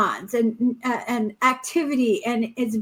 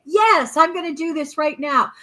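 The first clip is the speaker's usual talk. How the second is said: eager resolve; 2 semitones higher than usual. Retold or imitated. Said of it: "Or you can say".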